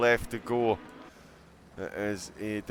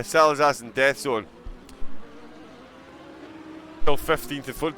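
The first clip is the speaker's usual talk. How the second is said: commentator voice; 4 semitones higher, 5 dB louder than usual. Shown as a demonstration. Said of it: "total full-on commentator voice there".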